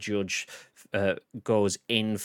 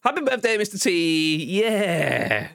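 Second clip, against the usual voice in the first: chipmunk voice; 8 semitones higher, slower than usual. Pretend. Voice mod high effect.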